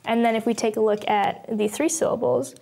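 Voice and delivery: usual speaking voice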